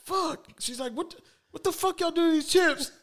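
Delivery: wife accusing the boys over burning chips, lightly voiced outrage; outraged wife. A touch of a furious, burning wife.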